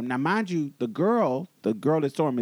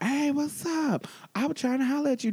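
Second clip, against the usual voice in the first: mock pickup line; 10 semitones higher than usual. Retold man calling out to her.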